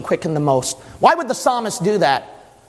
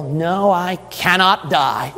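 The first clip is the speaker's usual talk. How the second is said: resolute Jesus; slower than usual. Acted. Jesus answers the devil.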